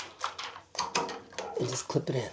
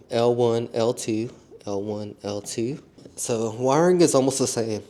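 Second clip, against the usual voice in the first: stuttering, teeth chattering from cold; stumbling over words from the cold. Real, not acted. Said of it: "if you wonder why I'm stuttering".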